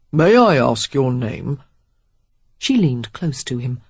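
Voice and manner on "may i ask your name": wonder. A narrator's reading. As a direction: let awe creep into a stiff voice. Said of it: "A trace of wonder entered his usually impassive voice".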